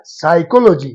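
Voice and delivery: "साइकोलॉजी" starting directly on s, no p; silent P. Shown as a demonstration. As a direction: drop the P and begin "साइकोलॉजी" with sai. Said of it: "पी को".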